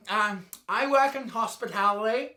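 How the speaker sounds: lightly voiced gushing hospitality worker; mocking a gushing hospitality worker. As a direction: parody someone who gushes about a rewarding job. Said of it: "who talks like this?".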